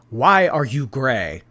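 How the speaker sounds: slow, imitated Ugandan accent. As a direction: put on a Ugandan accent, drawn out. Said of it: "In a Ugandan accent".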